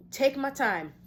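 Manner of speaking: high, loud, firm declaration; punched-up, insistent self-talk; emphatic affirmation. Acted. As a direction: declare it forcefully after a stumble. Restarts own affirmation with force.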